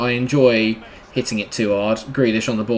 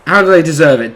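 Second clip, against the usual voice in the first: louder outraged question; indignant outburst; 4 semitones higher, 6 dB louder than usual. Real, not acted. Gamer challenging the commentator, indignant. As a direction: demand it of the commentator.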